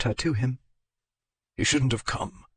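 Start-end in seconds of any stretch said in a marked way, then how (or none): 1.6-2.4 muffled tender growl. A narrator's reading. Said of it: "he growled into the top of her bonnet".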